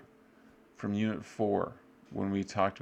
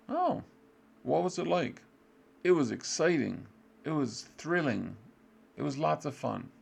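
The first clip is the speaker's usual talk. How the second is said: high, bright acted enthusiasm; mock excited interest; 6 semitones higher than usual. Shown as a demonstration. Teacher modelling a dialogue for students, mock excited. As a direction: act out an excited answer.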